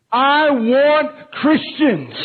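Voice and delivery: high, slow, drawn-out devil's craving; mock villain wanting; a lightly voiced Satan, slow and hungry.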